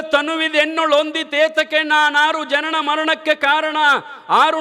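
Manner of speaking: the same verse rushed out in a single breath; in one breath. Shown as a demonstration. Preacher shows the verse said in one breath, rushed. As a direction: rattle the lines off without pausing. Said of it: "ಒಂದ ಉಸುಲ್ಲೆ".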